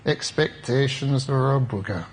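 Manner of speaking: put-on slow, deliberate Yorkshire accent; imitated Yorkshire accent, drawn out; Yorkshire brogue. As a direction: quote the teacher in a Yorkshire brogue. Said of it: "he says it in his Yorkshire brogue".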